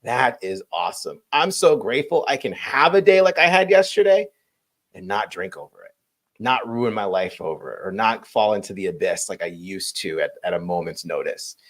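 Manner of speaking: soft, hushed grateful reflection; quiet gratitude. Retold or imitated. Sober man thanking his past self, soft hushed gratitude. Grateful inner voice looking back.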